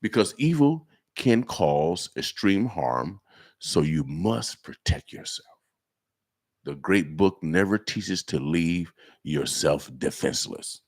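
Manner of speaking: low, slow God voice; Abraham. Acted. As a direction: pronounce it like God, deep and measured. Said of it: "my God voice, my Abraham voice".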